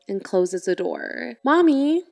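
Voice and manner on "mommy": calling out. Retold or imitated. Child calling mother back.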